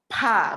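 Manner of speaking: "Pa" with a puff of air on the P; aspirated P. Shown as a demonstration. Teacher shows how takut is read, aspirated P. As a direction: say "Pa" as p-h, breath after the P. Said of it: "P H bacanya".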